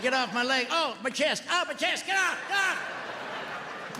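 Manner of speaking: strained high gasps climbing to a breathless squeak; mock panicked gasping under a heavy partner; crushed, gasping cry. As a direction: squeal like you're being crushed under someone. Squashed under wife in bed.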